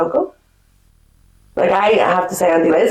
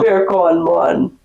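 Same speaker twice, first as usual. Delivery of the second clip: slow Jamaican bacon; 2 semitones lower, much slower than usual. Shown as a demonstration. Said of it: "Jamaican accent".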